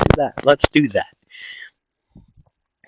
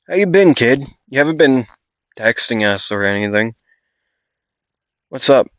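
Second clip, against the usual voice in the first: casual dad voice; 3 semitones higher than usual. Acted. Father greets estranged son.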